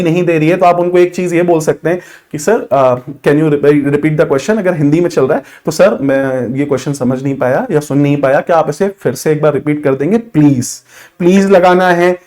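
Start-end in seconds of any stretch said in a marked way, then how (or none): 2.4-4.6 polite request. Shown as a demonstration. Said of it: "एकदम तमीज से बात करनी है". 5.7-10.8 lower, softer courteous ask to the interviewer; polite request. Shown as a demonstration. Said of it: "एकदम तमीज से बात करनी है".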